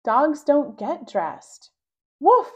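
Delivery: slow loud words ending in a high yapping woof; stubborn puppy talking back; mock bark. Child barks back at mom.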